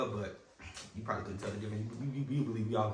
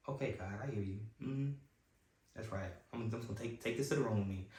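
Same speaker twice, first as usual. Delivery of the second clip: subdued acceptance; 6 dB quieter than usual. Retold or imitated. Subdued private reply to God.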